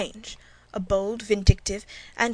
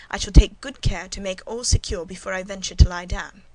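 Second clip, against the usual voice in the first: "I shall take good care" spoken louder, with marked stress; 6 dB louder than usual. A narrator's reading. Governess warning the servant she will lock up, stressing "I shall take good care" markedly. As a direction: lean firmly on each word of "take good care to make all secure". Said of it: "I laid marked stress on the words".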